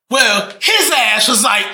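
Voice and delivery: lightly hammed-up TV host impersonation; mock comedian's drawn-out delivery; Steve Harvey. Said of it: "when someone imitates Steve Harvey".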